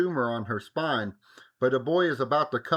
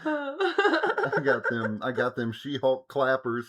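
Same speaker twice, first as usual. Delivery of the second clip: laughing boast; slower than usual. Real, not acted. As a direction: giggle through the boast. Boasting about thunder thighs.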